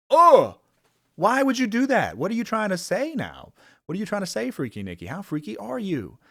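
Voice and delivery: high-pitched teasing villain voice; taunting Nikki voice. Retold or imitated. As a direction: sneer it up high like a twisted tormentor. Voicing Nikki taunting her partner.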